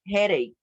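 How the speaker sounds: "headache" with the ending said as "ache"; pronunciation demo. Shown as a demonstration. Teacher showing students how to pronounce a word, pronunciation demo. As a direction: say "headache" clearly as a model word. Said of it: "just the pronunciation of".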